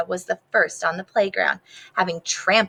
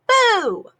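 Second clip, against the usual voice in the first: mock boo; 13 semitones higher, 4 dB louder than usual. Camilla scaring a leaf.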